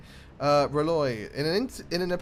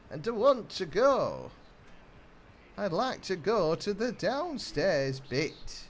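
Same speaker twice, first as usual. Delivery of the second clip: put-on childish northern whinge about the downstairs bit; whining in a put-on northern voice; mock northern whine; 5 semitones higher than usual. Player stuck on the ship, whining like a northerner. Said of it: "I've become more northern".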